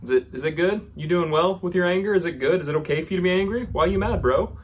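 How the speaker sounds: high and loud, teasing challenge; God as a bro poking at Jonah's anger; casual challenging God. Acted. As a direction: needle him like a buddy, why so mad. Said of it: "God says".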